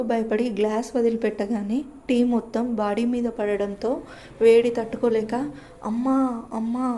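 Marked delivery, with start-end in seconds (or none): 5.8-6.9 crying out. A narrator's reading. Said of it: "అంటూ అరిచింది భూమి".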